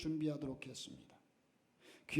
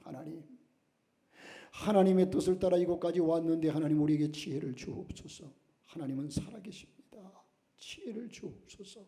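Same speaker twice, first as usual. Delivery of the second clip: retold pleading prayer; 5 dB louder than usual. Missionary mother prays to God for wisdom, retold pleading. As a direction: plead with God earnestly, without real crying. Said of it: "울며 불며 하나님께 간절히 매달렸습니다".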